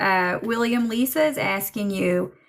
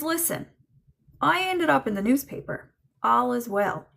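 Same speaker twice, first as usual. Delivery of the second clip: higher-pitched, lightly voiced joking dad; William joking; 4 semitones higher than usual. Medium relaying a dead father's joke to his daughter, lightly voiced joking. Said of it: "He's making a bit of a joke here".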